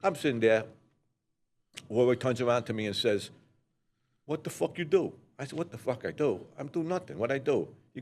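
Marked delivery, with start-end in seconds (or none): 4.2-5.1 retold chewing-out. Older associate chews him out for staying, retold scolding. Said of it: "you ripped me a new asshole". 5.6-7.7 retold protest. Answering the man telling him off, retold defensive protest.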